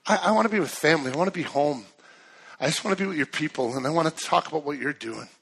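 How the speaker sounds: prayer. Real, not acted. Leads an opening prayer.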